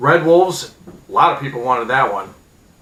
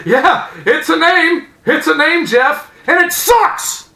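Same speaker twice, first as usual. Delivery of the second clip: high, slow, loud mock voice; mocking pundits; 5 dB louder, slower than usual. Mimicking panel telling Jeff the name sucks, mocking. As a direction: drag it out sarcastically. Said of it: "everybody goes".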